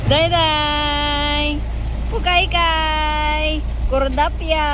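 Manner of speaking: loud, drawn-out silly names; playful nickname calls. Real, not acted. Parent calling the baby silly nicknames, playful and loud.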